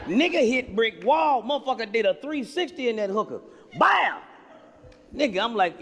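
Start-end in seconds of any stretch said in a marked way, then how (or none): 0.1-3.4 laughing retelling. Real, not acted. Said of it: "laughing crash retelling".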